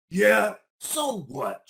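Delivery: loud defiant shout. Acted. Isaac admitting it to the bears, loud defiant shout. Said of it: "shouted Isaac".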